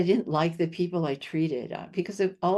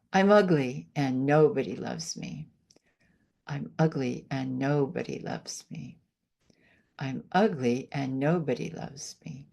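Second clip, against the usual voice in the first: lower, flat, deflated self-talk; negative affirmation demo; 3 semitones lower than usual. Shown as a demonstration. Healer contrasting negative self-talk for the host, deflated. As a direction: let the words sink you down. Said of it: "I'll show you one of my favorite things to do".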